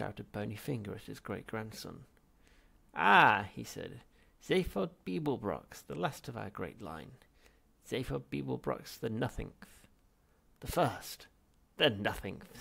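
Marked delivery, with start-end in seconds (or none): 2.9-3.5 put-on loud, high old man's ah; a startled ancient cry; old ghost's exclamation. Ghost spotting his great-grandson, loud. 4.4-12.6 put-on high, loud scornful old man; spat with contempt. Ghost mocking his heir, loud and spiteful. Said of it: "spat the figure".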